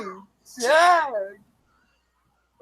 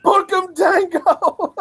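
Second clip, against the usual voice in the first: higher, playful call-out; hyped catchphrase; 7 semitones higher than usual. Acted. Fan shouting the team's catchphrase with glee.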